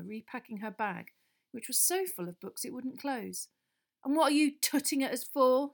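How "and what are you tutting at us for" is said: louder, higher irritated retort; irritable. A narrator's reading. Ron to Hermione, irritable. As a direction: snap at her. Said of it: "said Ron irritably".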